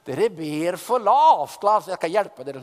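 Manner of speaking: Elijah taunting the prophets of Baal; mocking taunt. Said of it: "begynner han å håne dem".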